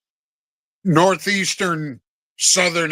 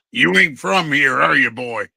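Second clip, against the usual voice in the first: mock Georgia local, a touch lower; lightly voiced Georgia local sizing him up; Southern drawl; 4 semitones lower than usual. Locals in Georgia quizzing him, in a light mock Southern accent. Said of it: "people just going like".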